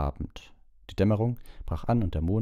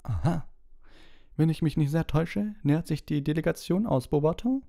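a lightly voiced old headmaster calling, much higher; 11 semitones higher than usual. A narrator's reading. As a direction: announce it across the rows. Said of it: "rief Dumbledore aus der hinteren Reihe".

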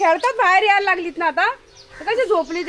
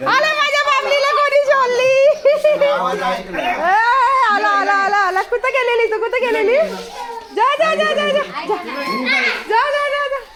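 higher, laughing coo at the cat; excited pet talk; 7 semitones higher, slower than usual. Real, not acted. Mother greeting her pet cat, higher excited baby talk. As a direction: greet the little cat with delight.

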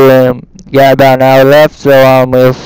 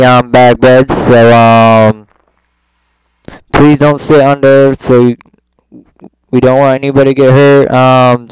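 airport announcer voice. Pretend. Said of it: "That was horrible".

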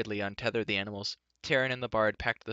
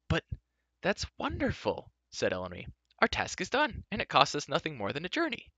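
put-on much higher, bright relieved girl; Elanwe delighted; 7 semitones higher than usual. A narrator's reading. Elanwe glad the quest is over, much higher. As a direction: cheer like the job is done.

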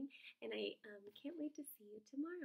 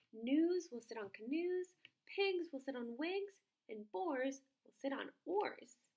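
a pleased frog showing off his rhymes, slowly; proud frog; 2 semitones higher, 4 dB louder, slower than usual. Acted.

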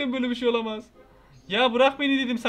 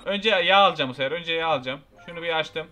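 ordinary delivery

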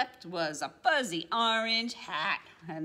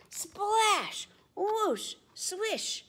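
playful sound words; 12 semitones higher, much slower than usual. A narrator's reading. Sound words in picture book.

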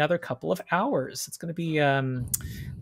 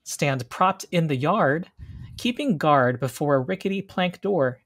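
scene narration. Acted. GM describes the witch's glade.

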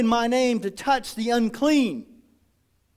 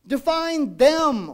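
slow; 5 semitones higher, 4 dB louder, much slower than usual. Real, not acted. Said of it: "who is them".

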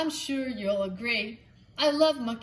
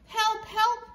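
high clucking cry for help; clucking hen cry; 10 semitones higher than usual. Acted. Hen crying for help for her chick, high clucking. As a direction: cluck out the call like a panicked hen. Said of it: "clucked the hen".

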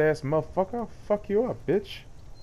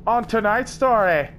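mock trailer narration. Movie trailer style narration.

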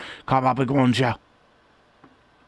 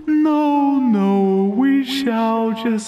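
mysterious character voice; 3 semitones higher, slower than usual. Acted. Character voice in game speech.

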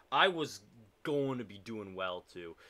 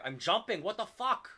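real shocked outburst; 12 semitones higher, 9 dB louder than usual. Real, not acted. Player startled as the game betrays the jump, high and loud disbelief.

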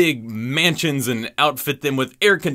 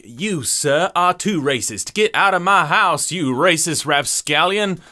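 mock yell; 3 semitones higher than usual. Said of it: "they yell at each other".

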